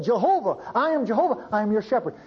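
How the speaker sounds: emphatic proclamation. Retold or imitated. Quoting God's proclamation in Old Testament.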